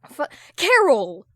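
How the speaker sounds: high, loud, slow shocked cry; bamboozled. Acted. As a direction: sputter her name in disbelief. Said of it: "Hal is bamboozled".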